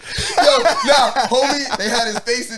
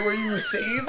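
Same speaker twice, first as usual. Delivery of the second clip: laughing; 6 dB quieter than usual. Real, not acted. Laughing mock question.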